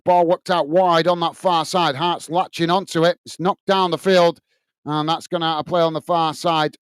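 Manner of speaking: steady play-by-play of the match; match commentary. Acted. Fan channel host calling the match live, commentary voice. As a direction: call the action as it happens.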